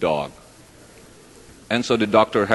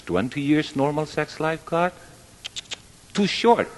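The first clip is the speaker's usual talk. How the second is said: high-pitched, rising incredulous protest; acted-out objection, climbing in pitch; mock complaint; 7 semitones higher than usual. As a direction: imitate a man complaining to God, pitched up. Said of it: "the man complained".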